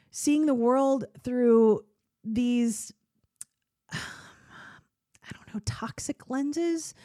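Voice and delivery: slow, breathy whisper that fades out; half-whispered, reluctant admission; trailing whisper. Real, not acted. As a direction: let the words sink to a whisper. Painful self-description, whispered.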